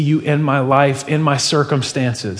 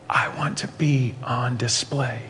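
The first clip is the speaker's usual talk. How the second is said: soft unvoiced whisper; whisper in your ear; 8 dB quieter than usual. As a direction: breathe it right in their ear. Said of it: "I want to whisper in your ear".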